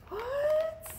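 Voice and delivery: a high squeaky "What?" in mock disbelief; mock surprised what. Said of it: "I know you're like".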